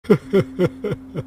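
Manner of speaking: high, broken sobs; sobbing. Acted. Farmer weeping over his ruined crop, sobbing. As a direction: sob in acted despair.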